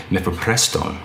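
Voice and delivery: "mifepristone" slowed, in a light Hispanic accent with a rolled R. Real, not acted. Podcaster reading the drug name to listeners, light Hispanic accent. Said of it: "like, an Hispanic accent".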